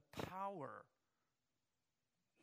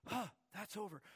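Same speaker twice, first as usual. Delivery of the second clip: higher, louder relieved gasp; relieved boy; 5 semitones higher, 4 dB louder than usual. Acted. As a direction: huff it off, then startle. Boy relieved then startled.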